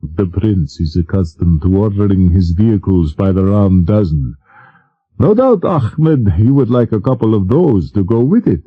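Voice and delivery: mildly dry teasing; a hint of dry mockery. King teasing the prince about his vehicles, mildly dry. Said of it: "The king said dryly".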